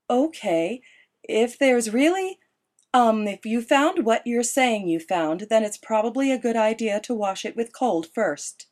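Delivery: Esme on the phone. A narrator's reading. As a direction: coax her son over the phone.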